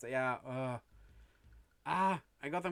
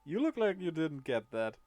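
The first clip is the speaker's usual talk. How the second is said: louder jester voice with a purring buzz; 3 semitones higher, 5 dB louder than usual. Acted. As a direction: let a cat's purr hum under it. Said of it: "a bit vibration ... purring into it".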